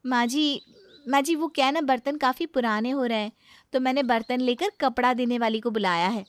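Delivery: high, coaxing bride's voice pushing to throw it out; young daughter-in-law. Acted.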